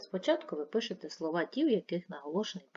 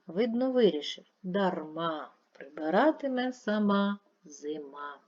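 expressive reading. Shown as a demonstration. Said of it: "Прочитайте виразно вірш".

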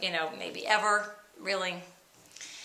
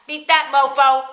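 slow, louder gloating taunt, leaning on that; smug taunt; 2 semitones higher, 5 dB louder, slower than usual. Retold or imitated. Taunting her sisters with the gift, slow and louder. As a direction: rub it in, drawn out. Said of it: "And I'm like".

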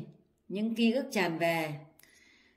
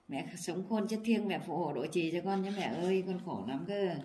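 a softer, pleading prayer to mother; quiet prayer; 5 dB quieter than usual. Real, not acted. Son speaks to his late mother's spirit, softer pleading. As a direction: beg her spirit softly.

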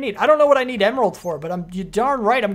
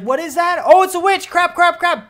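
high, loud comic panic building through the repeats; mock-panicked rush of alarm; retold panic; 9 semitones higher, 6 dB louder than usual. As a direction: blurt it out like a startled gamer reliving it. Retells panic on spotting witch.

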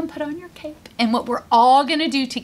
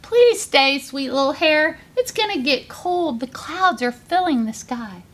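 pleading mother; 3 semitones higher than usual. Acted. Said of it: "her mom cried out".

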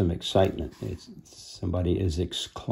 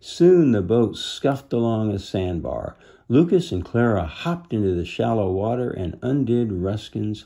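measured storybook reading; deliberate, expressive storytelling; story narration. A narrator's reading. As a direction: read a children's adventure aloud. Reads storybook aloud.

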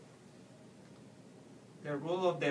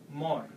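"more" said as a strong, stressed Spanish syllable; 4 dB louder than usual. Shown as a demonstration. Teacher isolating the syllable to stress, emphatic. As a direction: punch out "more" alone. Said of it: "all you have to do is stress".

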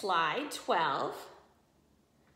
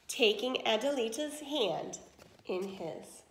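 lively read-aloud to children, voicing each character; expressive story narration for young listeners; storybook reading. A narrator's reading. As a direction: tell it like a bedtime tale for the class. Teacher reads a story aloud.

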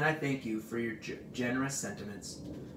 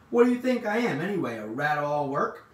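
high, loud outburst, then easing; indignant; 4 semitones higher, 7 dB louder than usual. A narrator's reading. Rat sick of running errands, indignant. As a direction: protest being used for every chore.

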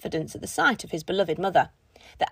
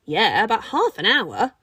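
not very quietly; 4 dB louder than usual. Acted. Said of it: "not very quietly".

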